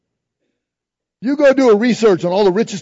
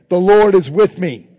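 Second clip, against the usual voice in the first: loud declaration; 6 dB louder, slower than usual. Shown as a demonstration. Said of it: "Say that with me".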